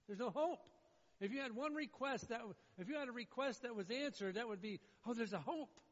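loud, high sermon delivery; emphatic preacher, building to a loud finish; forceful preaching. Real, not acted. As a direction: hammer the point home to the congregation.

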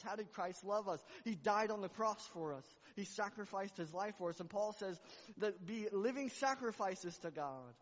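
high, loud, impassioned preaching; full-force preaching. Acted. Preacher calling the church to sacrifice, impassioned. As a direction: preach the cross with everything you have.

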